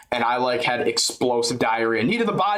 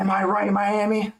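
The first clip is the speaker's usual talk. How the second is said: higher, hammed-up Hulk rapping; Hulk hype voice; 7 semitones higher than usual. Hyping the crowd in a corny Hulk voice. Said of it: "Make up some corny ass Incredible Hulk rhymes".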